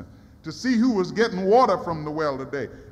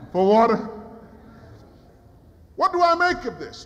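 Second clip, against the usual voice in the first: sarcastic woman. Acted. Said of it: "she was a little sarcastic".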